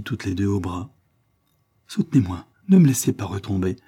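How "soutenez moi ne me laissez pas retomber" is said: un léger cri arraché avec effort; cri pénible. Acted. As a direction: appeler à l'aide avec peine, plus fort. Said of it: "cria-t-il avec un pénible effort de la voix". (l'enfant malade supplie les deux femmes, cri douloureux)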